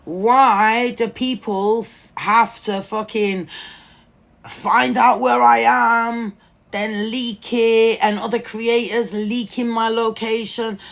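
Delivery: loud, slow exasperated rant; angry rant. Real, not acted. Complaining to viewers about leaked location, loud exasperation. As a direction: vent the frustration, dragging it out.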